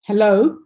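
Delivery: "hello" stressed on LO, rising at the end; light "hel", weight on "lo" in "hello"; second-syllable stress. Shown as a demonstration. Teacher giving students an example word, stressed on the second syllable of "hello". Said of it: "put the stress on".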